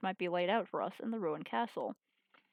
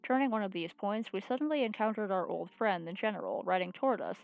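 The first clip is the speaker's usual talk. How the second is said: even, measured read-aloud narration; story narration. Acted. Reads visual novel aloud.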